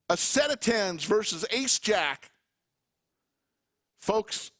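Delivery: slightly breathless, winded delivery; out of breath. Real, not acted. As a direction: call it a little out of breath. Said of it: "I'm a little out of breath on that one".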